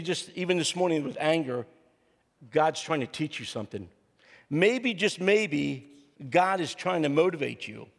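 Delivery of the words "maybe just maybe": slow preaching emphasis. Acted. Preacher builds the point slowly.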